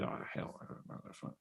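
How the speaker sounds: whispered under the breath; embarrassed whisper. Retold or imitated. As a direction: mutter it unvoiced so friends barely hear. Embarrassed teen mutters sitting down.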